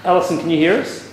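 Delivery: loud call into the room; calling a spirit by name. Real, not acted.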